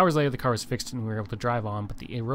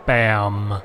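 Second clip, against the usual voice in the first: triumphant bam; 3 semitones lower, 10 dB louder than usual. Real, not acted. Celebrating a big sale.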